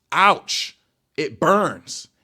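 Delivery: high, loud cry of pain; pained yelp. Retold or imitated. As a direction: yelp as if the burning is unbearable.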